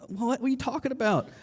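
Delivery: quick, mild mock confusion; baffled response. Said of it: "he's like".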